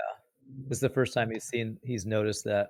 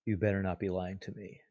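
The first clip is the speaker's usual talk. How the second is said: inner-voice warning; 5 dB quieter than usual. Acted. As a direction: warn him quietly, mind to mind. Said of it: "responds in his head".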